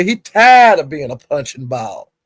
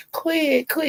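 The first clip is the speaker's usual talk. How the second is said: mock protest; 13 semitones higher, 6 dB quieter than usual. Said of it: "she was saying".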